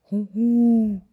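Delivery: high, loud hooting owl call; loud owl hoot from behind. Acted. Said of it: "raunte es plötzlich".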